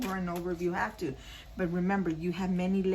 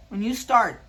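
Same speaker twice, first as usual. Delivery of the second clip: much louder, hammering home the word start; emphatic; 3 semitones higher, 9 dB louder than usual. Real, not acted. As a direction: punch it out loud to drive it home. Repeats the card message for emphasis.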